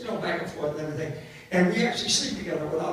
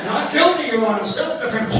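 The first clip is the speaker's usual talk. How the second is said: mock courtroom plea; 4 semitones higher, 4 dB louder than usual. Acted courtroom plea after mock killing.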